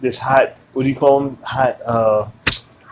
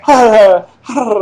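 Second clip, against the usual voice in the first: higher sing-song mock Swedish sounds; mock Swedish-like accent; 5 semitones higher, 3 dB louder, much slower than usual. Host mimicking how she sounded, mock Swedish accent. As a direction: imitate her vaguely Swedish lilt. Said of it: "like, Swedish or something".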